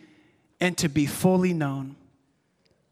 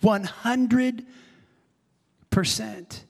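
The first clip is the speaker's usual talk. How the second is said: slow, deliberate declaration, word by word; emphatic devotion; slower than usual. Retold or imitated. Peter pledging himself wholly to Jesus, emphatic and deliberate. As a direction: spell out total devotion with weight on each word. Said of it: "But Peter is like".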